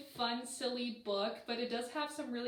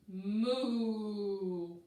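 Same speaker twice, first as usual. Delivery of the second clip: cow moo; 2 semitones lower than usual. Acted. Reading a picture book aloud, a drawn-out moo.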